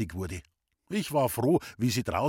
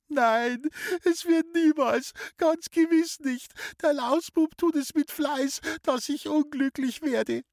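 high, wailing, tearful sister, much higher and louder; sobbing sister; 3 dB louder than usual. Acted. Sister howls to mother about her little brother, weeping loudly. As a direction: wail it through tears, inconsolable. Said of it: "heulte furchtbar".

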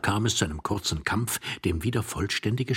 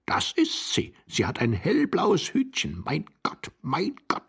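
hushed, despairing moan rising higher; desperate moaning; 8 semitones higher than usual. Acted. Hidden husband recognizing his wife's blue hat, desperate moaning. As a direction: groan in horror, climbing at the end. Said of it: "stöhnte Iwan Andrejewitsch wie ein Verzweifelter".

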